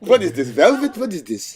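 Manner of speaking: mock outrage. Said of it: "He like".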